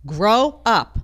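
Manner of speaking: blunt order to grow up; stern scold. Real, not acted. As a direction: scold them like a parent. Scolding critics to mature.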